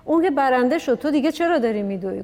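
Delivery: retold taunt, a touch of mockery; mocking. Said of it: "با حالت تمسخر، اون لهجهٔ جنوبی". (با کمی حالت تمسخر)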